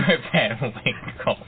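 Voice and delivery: "Rip Van Winkle" said slowly, each word spelled out with care; careful pronunciation. Real, not acted. Co-host has threatened him, so he says it slowly and carefully. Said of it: "If you say it wrong, I swear to God".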